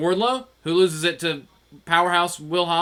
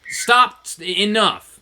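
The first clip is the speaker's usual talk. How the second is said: stern order; 3 semitones higher, 5 dB louder than usual. Retold or imitated. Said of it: "It's like".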